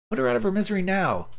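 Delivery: high, forceful command; doctor demanding the caregiver end her suffering, forceful; angry order. Acted.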